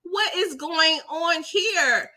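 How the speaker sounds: slow high disbelief; baffled. Retold or imitated. Reacting to Corbin's line, slow baffled disbelief. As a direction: stretch out the shock. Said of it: "I'm like".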